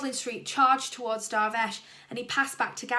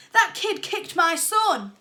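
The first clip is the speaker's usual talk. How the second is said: loud, higher and slow with outrage; angry shout; 7 semitones higher, 9 dB louder, slower than usual. A narrator's reading. Dad shouting angrily at the referee. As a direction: accuse the kid, furious. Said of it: "he shouted".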